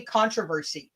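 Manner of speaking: controversy with stress on CON, american style; American pronunciation. Shown as a demonstration. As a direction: say controversy stressed on the first syllable. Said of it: "the one word that you guys say so differently".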